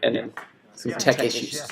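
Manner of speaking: echoey room sound; reverb echo. Real, not acted. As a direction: voice ringing with reverb. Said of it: "I apologize for the reverb, a little bit of echo".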